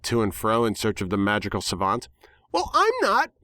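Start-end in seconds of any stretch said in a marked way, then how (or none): 2.5-3.3 high, bubbly exuberant pony voice; exuberant cry. A narrator's reading. Pinkie cries out gleefully to her friends, high and bubbly. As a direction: squeal it out with glee. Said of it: "Pinkie cried exuberantly".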